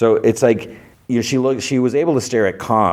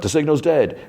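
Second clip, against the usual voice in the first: mock crying out of bad news; retold cry-out; 8 semitones higher than usual. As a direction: imitate an alarmed call at moderate volume. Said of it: "he cries out".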